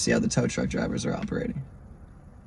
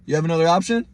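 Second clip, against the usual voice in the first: slightly higher, questioning lift at the end; imitated offhand challenge; 4 semitones higher, faster than usual. Cop and tow guy putting it to the stranded driver, imitated challenge. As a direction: imitate their brusque question. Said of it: "they said it like that".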